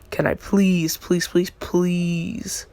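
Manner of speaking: mock begging, drawn-out pleases; pleading. Deku begs Obelisk to use the head, pleading. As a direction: plead in a string of insistent pleases.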